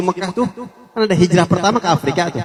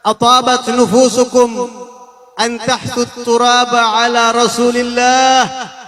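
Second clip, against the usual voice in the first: Arabic quote intoned; 3 semitones higher, much slower than usual. Retold or imitated. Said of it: "Sayyidah Fatimah bilang apa?".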